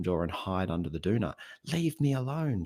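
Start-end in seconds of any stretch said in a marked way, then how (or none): 1.7-2.6 high, drawn-in mock outburst; screaming. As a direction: imitate a scream at conversational volume. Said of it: "She's screaming at you".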